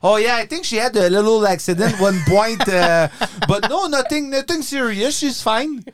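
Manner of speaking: downplay it innocently, voice rising high; playing innocent. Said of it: "J'ai joué la carte de l'innocence". (fausse innocence à l'accent francophone, voix aiguë)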